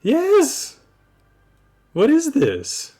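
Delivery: exasperated disbelief. Acted. Guns pulled again.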